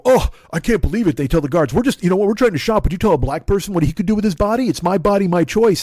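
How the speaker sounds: hammed-up entitled protester; whiny mock voice. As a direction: parody the indignant shopper. Mocking the maskless shoppers.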